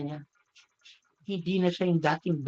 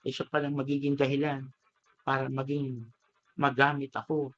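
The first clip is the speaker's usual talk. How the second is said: understand at last, voice lowered with a touch of tears; tearful realization; 4 semitones lower than usual. Acted. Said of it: "naiyak yung bamboo".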